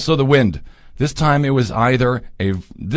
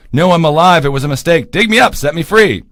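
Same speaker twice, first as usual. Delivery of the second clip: pleading from the grave; 4 semitones higher, 3 dB louder than usual. Acted.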